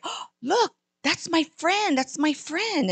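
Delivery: put-on high, bright child voice spotting a friend; excited little girl.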